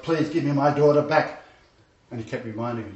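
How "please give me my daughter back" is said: mildly imitated pleading, a little louder; retold desperate plea. Pastor voicing a mother begging God for her child, pleading. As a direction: retell a mother's begging prayer with some force. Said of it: "crying hysterically and praying ... asking God".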